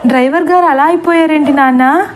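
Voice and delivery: cling and ask through tears; crying child. Acted. Deepa asks her father about the driver, crying. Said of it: "దీప ఏడుస్తూ".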